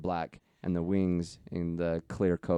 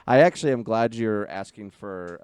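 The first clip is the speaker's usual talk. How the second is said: higher, louder, laughing into it; real excitement; 4 semitones higher, 7 dB louder than usual. Real, not acted. Cohost insisting he's glad to be asked for help, excited. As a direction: protest with a burst of loud, eager energy. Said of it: "No, I'm actually excited".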